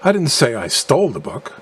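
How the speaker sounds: "stole" met nadruk, luider gezegd; stress on STOLE. Shown as a demonstration. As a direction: druk het woord "stole" aan. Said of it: "implying that I acquired the book by some other means".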